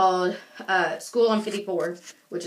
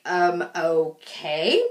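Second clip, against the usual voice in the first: slow, low unimpressed okay; slow flat-footed shrug of a reply; deadpan okay; 5 semitones lower, much slower than usual. Retold or imitated. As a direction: drag it out, unimpressed. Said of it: "I was like".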